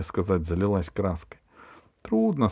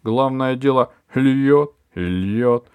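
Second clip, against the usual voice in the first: excited neighbour; 4 semitones higher, 7 dB louder than usual. A narrator's reading. Aunt Valya excitedly reporting.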